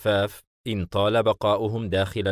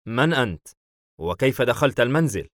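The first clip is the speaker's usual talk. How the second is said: mildly taken aback; surprised; 3 semitones higher, 4 dB louder than usual. Acted. Hayim questions a stranger in the house, mildly surprised. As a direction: question with a touch of astonishment. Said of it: "حايم باستغراب".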